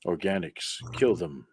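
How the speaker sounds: cold mechanical whisper-voice chanting; robotic, machine-like menace. Acted. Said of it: "in a very mechanical voice".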